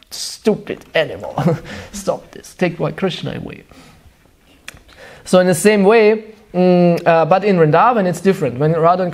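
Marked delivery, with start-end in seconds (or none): 0.1-3.6 mock curse. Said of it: "they curse the cock".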